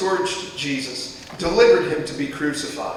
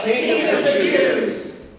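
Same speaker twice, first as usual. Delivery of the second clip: much higher, slow, sing-song jeer; scornful soldier's mock salute; 12 semitones higher, 4 dB louder, slower than usual. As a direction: taunt him with fake reverence. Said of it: "they mocked him, saying".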